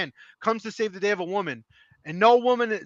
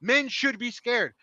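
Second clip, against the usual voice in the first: quoted comment; 3 semitones higher, slower than usual. Retold or imitated. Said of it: "That's a quote I literally saw in a comment".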